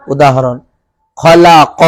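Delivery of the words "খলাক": খলাক with a bounced, echoed last q; qalqalah on qaf. Shown as a demonstration. Teacher revises the qaf example, bouncing খলাক. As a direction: drop and bounce the ক ending খলাক. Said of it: "কফকে ভেঙে বলেছি".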